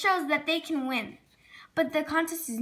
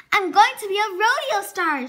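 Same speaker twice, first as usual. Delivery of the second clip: a louder, higher rodeo yell; hollering with glee while jumping on the dog; excited shout; 5 semitones higher, 7 dB louder than usual. A narrator's reading. Sally shouts her rodeo dream while jumping on Snoopy, loud and high. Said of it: "she shouts as she jumps".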